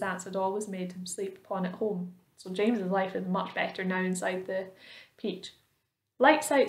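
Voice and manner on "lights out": calls it out higher and louder; a loud bossy order to the room. A narrator's reading. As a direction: centipede barking lights out at the ceiling. Centipede orders lights out.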